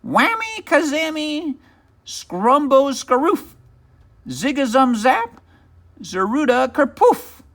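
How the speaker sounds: furious witch casting a spell on Central City; angry spell. Acted. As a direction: chant the magic words with fury. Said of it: "the angry little witch exploded".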